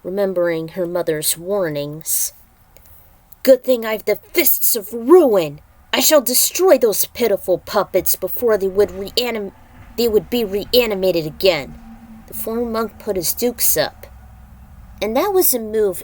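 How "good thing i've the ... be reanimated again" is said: a bold boastful warrior line, a bit louder; voiced Khan. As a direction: brag like a fighter about his fists. Khan character quote, louder.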